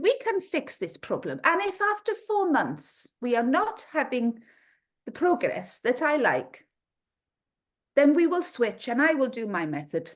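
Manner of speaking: put-on Ukrainian accent, sure of herself. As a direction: imitate her promising a cure in a Ukrainian accent. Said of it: "excuse the terrible accent".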